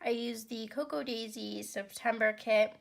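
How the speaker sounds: stuffy nose from a cold; congested voice. Real, not acted. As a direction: speak blocked up, like a head cold. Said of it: "excuse my voice, I'm getting over, like, a cold".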